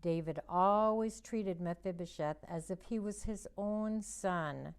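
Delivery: put-on gentle storybook narration for kids; reading to children. A narrator's reading. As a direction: read it like a children's Bible story. Reads Bible story to children.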